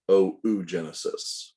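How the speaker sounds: "oogenesis" with a long O, then an OO; oh-oo-genesis pronunciation. Shown as a demonstration. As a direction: say "oogenesis" as oh-oo-JEN-uh-sis. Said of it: "or it's pronounced".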